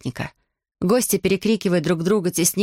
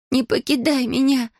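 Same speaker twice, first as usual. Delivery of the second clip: put-on high desperate girl's cry; 7 semitones higher than usual. Girl crying out to her fallen dragon, high. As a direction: cry out for your dying friend. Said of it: "выкрикнула Алиана".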